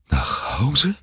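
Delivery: father can't believe he must take it home; disbelieving. A narrator's reading. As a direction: echo it, unable to believe it. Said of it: "wiederholte Mister Button ungläubig".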